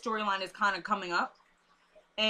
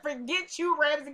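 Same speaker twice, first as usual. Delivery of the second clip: embarrassed outburst; 6 semitones higher, 3 dB louder than usual. Retold or imitated.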